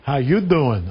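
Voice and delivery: low Brooklyn come-on; Brooklyn accent. Acted. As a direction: greet them like a Brooklyn charmer. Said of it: "I love a good Brooklyn accent".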